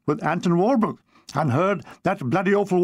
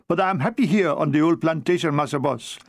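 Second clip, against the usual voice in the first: pained voice. Acted. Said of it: "I said in a pained voice".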